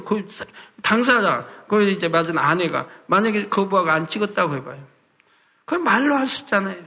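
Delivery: normal talking voice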